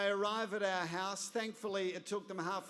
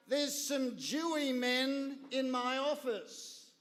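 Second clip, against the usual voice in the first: higher, slow broad Aussie country voice; slow, matter-of-fact broad Australian drawl; broad Australian accent; 6 semitones higher, slower than usual. Retold or imitated. Broad Australian, an agent on the phone telling the father about visitors. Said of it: "who had the most Australian accent".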